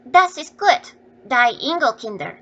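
put-on hungry children crying out with joy at the food; children's glad German cry. A narrator's reading. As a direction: cry out happily as they eat. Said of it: "cried the poor things".

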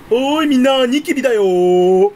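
high, loud holler with stretched ending; calling out. Pretend. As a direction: call everyone over to look. みんなに大声で呼びかける. (大声で呼びかける)

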